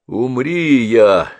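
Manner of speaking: a hammed-up anguished man; remembered John pleading in pain; voice full of pain. A narrator's reading.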